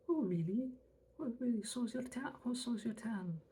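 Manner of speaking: sassy retort. Acted.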